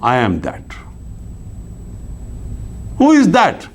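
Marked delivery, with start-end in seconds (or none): 0.0-0.6 said calmly, drawn out; a sage's calm, slow utterance. Acted. Sage answers the troubling question of who am I, calmly. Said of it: "The sage is very calmly, he says".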